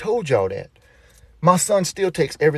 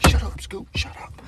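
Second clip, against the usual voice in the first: hushed whisper; 5 dB quieter than usual. Retold or imitated. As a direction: whisper it sharply under breath. Hushing daughter in restaurant.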